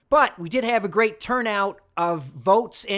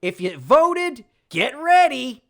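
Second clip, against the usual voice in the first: hyped-up promise; 6 semitones higher, 5 dB louder, slower than usual. Real, not acted. Hyping listeners.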